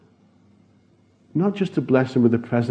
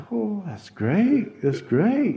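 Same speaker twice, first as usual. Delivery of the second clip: thrilled; 6 semitones higher, 6 dB quieter, much slower than usual. Retold or imitated. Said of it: "really thrilled".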